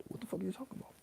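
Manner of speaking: high, thin mock-confused voice of an outsider; baffled outsider. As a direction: squeak it like someone totally lost. Outsider baffled by coded speech.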